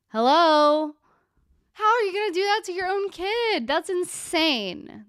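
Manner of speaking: high-pitched, appalled disbelief; incredulous outburst. Real, not acted. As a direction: call out the absent parent in disbelief. Appalled reaction to parents' replies.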